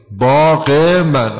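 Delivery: «باغ من» آهسته با کسرهٔ کشیده پس از «باغ»; «باغِ من» شمرده و کند; ezafe demo. Shown as a demonstration. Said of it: "یه کسره اضافه شد". («باغِ من» آهسته با کسره)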